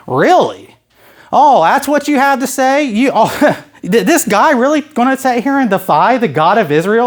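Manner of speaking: acted indignant amazement breaking into a chuckle; mock disbelief. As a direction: scoff with a laugh, can't believe it. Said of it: "He kinda gets this".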